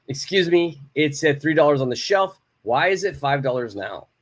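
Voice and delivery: firm and direct, no softening. Shown as a demonstration. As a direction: state it straight to the clerk. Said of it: "one is a little bit more direct".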